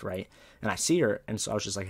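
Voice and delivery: ordinary delivery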